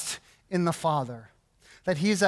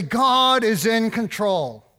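mock pious; slower than usual. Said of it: "churchy language like".

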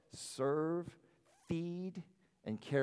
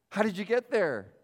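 put-on high, louder voice for small children; talking to preschoolers; 7 semitones higher, 7 dB louder than usual. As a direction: ask it like a cheerful preschool teacher. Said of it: "I share this with the preschool".

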